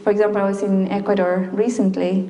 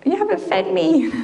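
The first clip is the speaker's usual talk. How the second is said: body's voice; 9 semitones higher than usual. Acted. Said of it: "Okay, body, what's wrong?".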